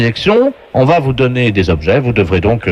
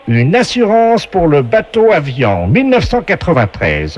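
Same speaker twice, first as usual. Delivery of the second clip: slow, booming quiz-show host; game show announcer voice. Acted. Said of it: "la voix du jeu".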